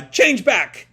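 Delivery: loud, high yell to force the change. Acted. Tokyo yelling at himself to change back. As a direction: strain and shout it out. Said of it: "He's just yelling".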